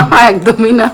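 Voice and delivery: chuckling no, not at all; laughing. Real, not acted. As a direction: laugh through the denial. Laughing denial of anger.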